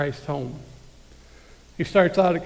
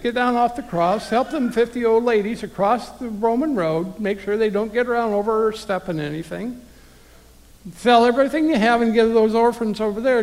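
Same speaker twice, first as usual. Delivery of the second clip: higher and louder, hammed-up cheery list of chores; mocking busy-work Jesus; 5 semitones higher, 4 dB louder than usual. Preacher mocking a works-based Jesus to the thief, higher and louder hammed-up voice. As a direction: rattle off demands like an overeager boss, loud and high.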